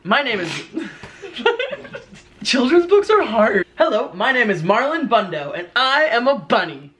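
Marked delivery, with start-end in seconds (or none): 0.0-0.5 higher-pitched storybook bunny; rabbit voice. Acted. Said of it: "What kind of voice do rabbits have". 3.8-6.9 higher-pitched bunny introducing itself; rabbit voice. Acted. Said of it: "What kind of voice do rabbits have".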